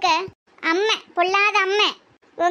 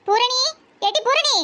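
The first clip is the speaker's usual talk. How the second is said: calling out; 4 semitones higher than usual. Real, not acted. Mother calls daughter from another room.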